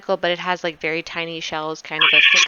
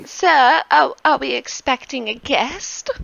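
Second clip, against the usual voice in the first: servant voice; 5 semitones higher than usual. Acted. Servant Anton questions master.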